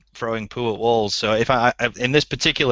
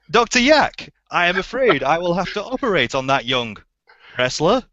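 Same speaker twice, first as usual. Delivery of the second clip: soap opera line; 5 semitones higher than usual. Acted. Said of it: "give you the line again".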